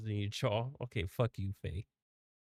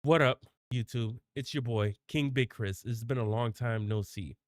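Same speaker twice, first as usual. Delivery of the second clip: hype YouTuber intro. Shown as a demonstration. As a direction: greet the viewers like a pumped host. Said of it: "All right, here we go".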